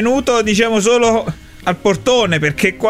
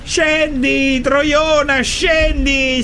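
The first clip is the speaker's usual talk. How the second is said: angry yell up to a balcony; exasperated shouting; much slower than usual. Acted. Man left waiting outside orders her down, shouting angrily. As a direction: shout for them to come down, fed up. Fed up, yelling at her to come down.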